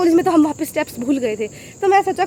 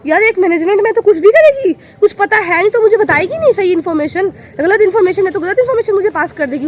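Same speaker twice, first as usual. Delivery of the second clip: louder, higher angry complaint; retold furious scolding, louder and higher; angry rant; 4 semitones higher, 5 dB louder than usual. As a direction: vent at the girl who misled her. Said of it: "मेरे को बहुत गुस्सा आया".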